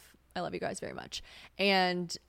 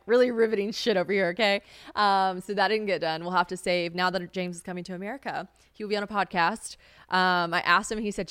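ordinary talk

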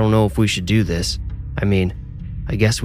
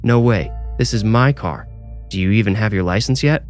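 firm refusal; 2 semitones higher than usual. Acted. Mitchell refusing her firmly.

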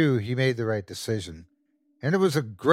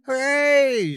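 put-on high gleeful little-boy hooray; excited kid cheer; 14 semitones higher, 3 dB louder than usual. A narrator's reading. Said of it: "shouted Brian".

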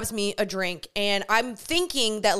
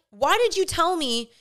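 higher-pitched annoyed confrontation; pissed off; 3 semitones higher than usual. Retold or imitated. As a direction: retell an indignant demand. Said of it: "pissed at this point".

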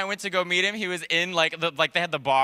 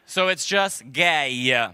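Italian accent; 3 semitones lower, much slower than usual. Shown as a demonstration. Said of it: "gay with an Italian accent".

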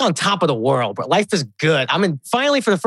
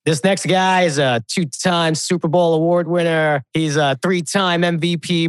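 announcer intro. Retold or imitated. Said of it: "This is how his intro goes".

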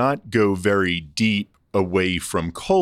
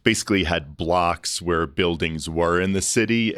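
ordinary talk, nothing marked

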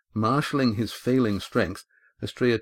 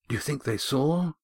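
gasped; 6 semitones higher than usual. A narrator's reading. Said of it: "he gasped".

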